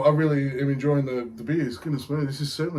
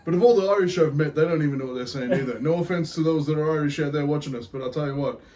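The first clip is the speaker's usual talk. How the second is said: put-on Irish accent. Beer show host greets punters, hammed-up Irish accent. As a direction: put on a cheeky Irish brogue. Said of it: "I'll go back to normal talk here".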